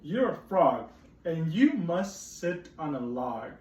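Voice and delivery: firm, slow cat insisting; bossy cat. Acted. Teacher voicing the bossy cat, slow firm. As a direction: lay down the law as the cat. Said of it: "said the cat".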